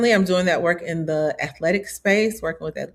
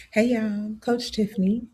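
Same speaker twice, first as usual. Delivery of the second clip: drowsy just-woke-up voice; sleepy voice; 4 semitones higher than usual. Real, not acted. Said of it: "what is this voice?".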